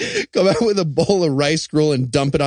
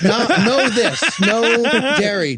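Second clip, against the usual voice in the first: broken English; 2 semitones higher than usual. Retold or imitated. Eli miming vegan in Tokyo.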